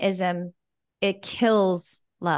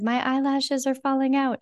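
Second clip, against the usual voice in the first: retold crying; 6 semitones higher than usual. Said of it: "And I started crying".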